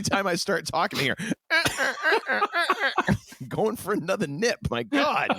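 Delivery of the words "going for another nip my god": high giggling teasing; laughing. Real, not acted. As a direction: laugh through the words. Laughing at cohost drinking.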